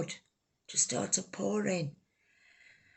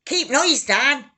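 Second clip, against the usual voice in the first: higher and louder, a slow shouted order; retold shout; 8 semitones higher, 9 dB louder, slower than usual. Neighbours shouting at the shooter, a retold loud shout. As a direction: bark it from the window. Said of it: "them what were shouting".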